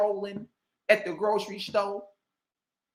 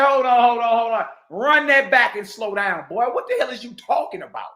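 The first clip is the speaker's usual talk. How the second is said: louder mock interruption; imagined objection; 3 dB louder than usual. Imagining someone stopping the scholar, louder. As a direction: cut him off like a sceptical listener. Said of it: "Don't nobody say".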